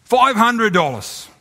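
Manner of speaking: high, slow drawn-out price call; auctioneer calling price. Acted. Auctioneer drops the price for the portrait. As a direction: stretch the price out hopefully.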